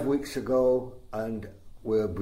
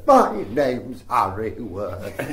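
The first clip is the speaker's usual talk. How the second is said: lightly voiced, slow comic introduction; a hint of the old comic's slow intro; Harry Worth; 3 semitones lower, 4 dB louder, much slower than usual. Recalling a boyhood impression, lightly voiced slow comic. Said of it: "early impressions".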